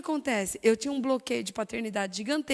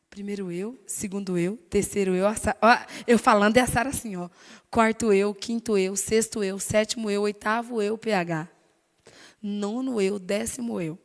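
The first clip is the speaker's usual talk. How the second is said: louder, punching each eu; emphatic counting; 8 dB louder than usual. Retold or imitated. Preacher mimicking her proud self counting. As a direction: count off every eu with force.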